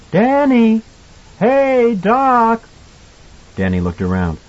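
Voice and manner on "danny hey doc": high, loud drawn-out call. Acted. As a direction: holler for a child from a distance. Mother calls Danny from afar.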